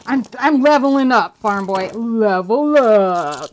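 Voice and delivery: loud, crowing boast with a drawn-out finish; gloating. Real, not acted. Player taunts farm boy about leveling up, gloating. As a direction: crow it at your opponent, stretching the last words. Gloating while playing dice game.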